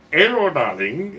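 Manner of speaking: put-on drawn-out Indian accent greeting. Shopkeeper greeting a regular in an Indian accent. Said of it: "he's like".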